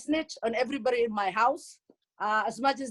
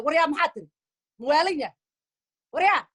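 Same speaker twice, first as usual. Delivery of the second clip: higher-pitched mock exasperation; losing it; 4 semitones higher, 3 dB louder, much slower than usual. Mother reacting to kids' Somali, losing it in mock outrage. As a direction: play at losing it, drawing out the repeat. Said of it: "I lose it".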